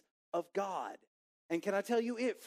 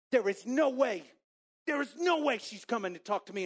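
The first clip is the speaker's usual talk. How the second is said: high, loud, insistent denial; acted disbelief; 4 semitones higher, 4 dB louder than usual. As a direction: deny it emphatically, pitched up. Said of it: "I'm having this internal dialogue".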